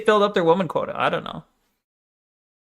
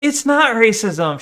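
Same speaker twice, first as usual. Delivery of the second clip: higher, slow, smiling smug tone; smug smile talking; 5 semitones higher, 3 dB louder, slower than usual. Retold or imitated. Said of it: "she says with her smile talking".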